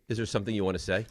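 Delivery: softly imitated passive-aggressive prompt; low, soft, lightly mimicked dig. Co-host imitating Ray's nudge to do the legal ID, mildly passive aggressive. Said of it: "He's very passive aggressive".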